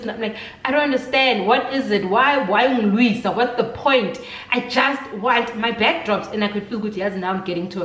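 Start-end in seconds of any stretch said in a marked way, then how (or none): 0.6-6.3 slightly raised, insistent questioning; retold frustrated demand; exasperated protest. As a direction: plead your case, fed up. Acted exasperated side of quarrel.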